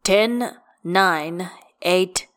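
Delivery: punchy referee's countdown; wrestling count-out. A narrator's reading. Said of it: "counting him out like in a wrestling tournament".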